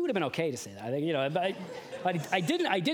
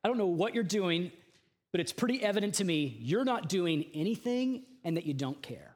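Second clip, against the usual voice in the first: higher, pleading complaint that climbs to cries; impassioned Habakkuk; 7 semitones higher than usual. Retold or imitated. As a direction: plead with God, rising in urgency. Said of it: "he says".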